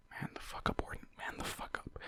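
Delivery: unvoiced whisper, repeated; whispered scold. Real, not acted. Reader urging Warden under breath, whispered. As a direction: hiss the command in a whisper. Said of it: "whispered repeated scolding".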